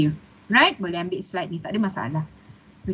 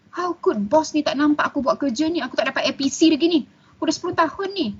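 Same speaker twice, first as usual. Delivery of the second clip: higher-pitched, acted-out grumble about the boss; mock disgruntled complaint; 5 semitones higher, faster than usual. Employee complaining about an unappreciative boss, mock disgruntled. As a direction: imitate a fed-up employee's grievance. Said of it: "you marah tak puas hati dengan bos ni".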